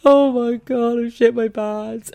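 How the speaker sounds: high, loud horrified disbelief; shocked disbelief. Retold or imitated. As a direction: react to the worst news possible. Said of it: "I was like".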